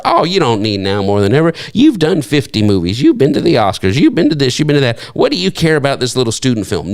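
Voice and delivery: a touch of acted dismissiveness, rattled off as a list; mildly scoff, as if talking someone out of praying; mock scoffing. Preacher voicing a scoffer about a little student film, lightly dismissive. Acting a scoffer answering the prayer.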